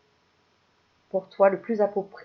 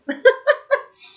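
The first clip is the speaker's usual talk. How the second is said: high burst of laughter; 10 dB louder than usual. Real, not acted. Laughing after singing.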